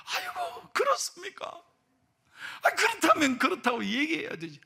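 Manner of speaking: imitating a taken-aback listener; astonished pastor. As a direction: react in squeaky dismay, then protest. Pastor reacts to revelation.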